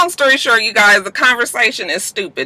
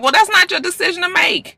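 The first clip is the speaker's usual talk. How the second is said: sassy retort; 11 semitones higher than usual. Real, not acted. Scolding Cisco.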